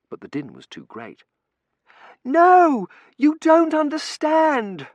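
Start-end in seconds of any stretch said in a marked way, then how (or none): 2.2-4.9 high, loud, drawn-out protest; screaming. A narrator's reading. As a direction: scream at the warden to make him listen. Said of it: "she was screaming at the warden".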